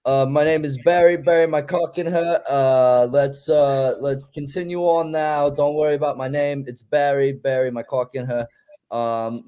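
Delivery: put-on laboured, halting British accent. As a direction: try hard at a British character. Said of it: "I am trying my best right now".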